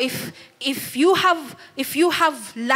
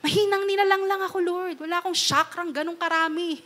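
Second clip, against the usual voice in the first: lightly voiced pleading Moses, higher; whiny Moses; 5 semitones higher, faster than usual. Preacher voicing Moses doubting God's call, mock pleading. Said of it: "tinanong niya ni Moses".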